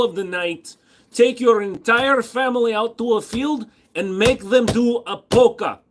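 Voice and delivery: high, loud, hammed-up crazy rant; unhinged madman act. Answering being called crazy, mock-deranged rant. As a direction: protest sanity in a crazed high voice.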